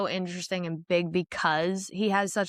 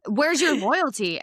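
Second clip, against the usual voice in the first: mock-upset demand, higher and drawn out; 5 semitones higher, 4 dB louder, slower than usual. Mother challenging her son about loyalty, upset. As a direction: retell an indignant mother's slow challenge. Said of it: "she's really upset".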